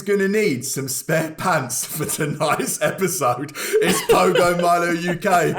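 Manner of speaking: sing-song show host build-up; announcer intro. Acted. Host introducing the podcast guests, in a sing-song announcer voice. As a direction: hype each guest like a game show.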